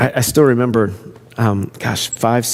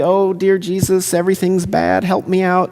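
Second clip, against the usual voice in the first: mock pleading, pitched up; sappy prayer; 5 semitones higher than usual. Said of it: "I'm not talking in the sappy".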